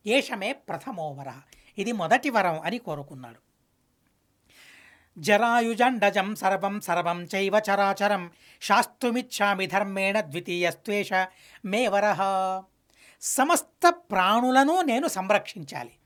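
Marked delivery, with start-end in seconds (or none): 5.2-12.2 measured Sanskrit verse chant; a lightly chanted sacred verse; shloka recitation. Acted. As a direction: intone the verse like scripture.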